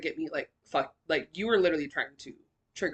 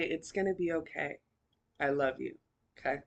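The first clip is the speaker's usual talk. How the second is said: soft, low, gentle voice of comfort; tender reassurance; 5 semitones lower, 8 dB quieter than usual. Retold or imitated. God hugging a sobbing woman from behind, softly reassuring.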